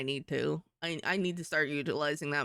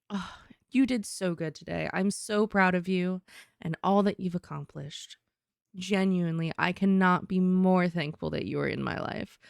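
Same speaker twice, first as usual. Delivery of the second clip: mom voice. Shown as a demonstration. Mom telling someone she is proud of them, reassuring mom voice. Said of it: "that's the mom voice".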